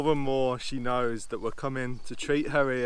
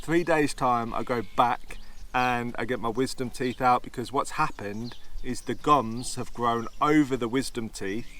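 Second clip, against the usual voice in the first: slurred speech from tooth infection; slushy s, talking through pain; lisp. Real, not acted. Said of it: "It sounds like I'm slurring".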